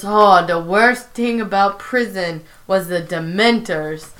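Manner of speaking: lightly faked New York accent; a hint of New York convict accent; Prison Mike. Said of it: "really bad New York accent".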